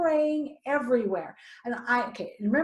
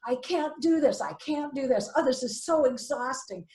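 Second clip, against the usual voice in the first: higher-pitched, worked-up venting; retold overwhelmed complaining; distressed exasperation; 4 semitones higher than usual. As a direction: replay a tearful rant, without real tears. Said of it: "I'm crying".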